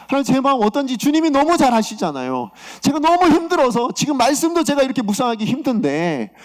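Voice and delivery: exasperated objection in an acted prayer; protesting to God. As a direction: push back in disbelief at God's order. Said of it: "그래서 제가".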